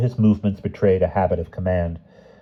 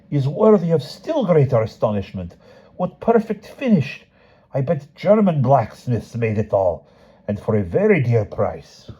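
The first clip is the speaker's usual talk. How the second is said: blacksmith in wonder; 6 semitones higher than usual. Acted. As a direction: savour every colour like a treasure. Blacksmith admiring door latch.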